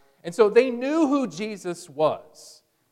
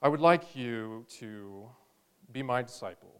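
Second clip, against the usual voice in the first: low, soft, overly polite invitation; mild, timid formal ask; polite request; 8 semitones lower, 6 dB quieter than usual. Pretend. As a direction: ask meekly, as the wrong version. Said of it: "It's not a".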